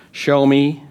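a skeptic daring you to prove it; challenging show me. Retold or imitated. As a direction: throw down the challenge. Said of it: "you get skeptical".

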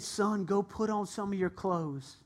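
father welcomes his son home; loving father. Acted. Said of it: "He said".

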